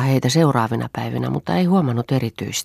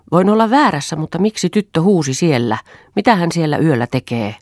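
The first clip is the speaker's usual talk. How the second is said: high, loud challenge; agitated, insistent questioning; heated confrontation; 6 semitones higher, 7 dB louder than usual. Acted. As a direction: press the accusation hard, voice raised. Acted quarrel, wife confronts husband.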